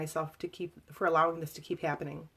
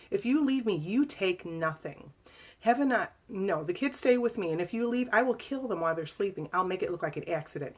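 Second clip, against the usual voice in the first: menacing threat, half-hearted bellow; retold bellow. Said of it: "he bellowed".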